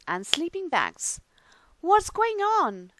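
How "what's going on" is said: put-on high, loud, slow puzzled boy; curious question. A narrator's reading. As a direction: ask it wide-eyed and high. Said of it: "asked Arthur".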